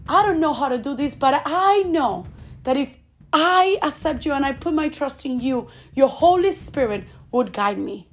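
quick, humble prayer voiced for the listener; modelled prayer. Preacher voices a listener's prayer, humble and quick. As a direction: pray it as the listener would.

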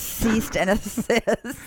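laughing through a slow repeat of ceased and assist; slow amused echo with a laugh in the middle. Retold or imitated. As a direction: giggle through the words, slowly. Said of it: "Yeah, assist".

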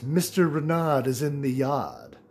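slow, a hint of a stiff butler; lightly voiced butler. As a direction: lightly play the formal butler. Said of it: "the butler looks at him and says".

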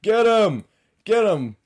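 high, very loud mock heckling; old guys egging on. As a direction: yell like old spectators goading a fight. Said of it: "you see these old guys".

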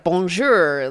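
lightly imitated American accent in French. Teasing partner's fluent French, mild American accent. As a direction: say the French with a hint of American twang. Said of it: "he has an American accent".

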